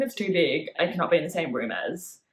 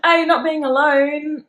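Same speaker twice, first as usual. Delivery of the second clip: laughing protest; 7 semitones higher, 6 dB louder than usual. Real, not acted. Laughing objection to co-host's joke.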